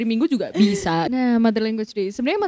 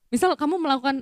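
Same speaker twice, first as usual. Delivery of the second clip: normal talking voice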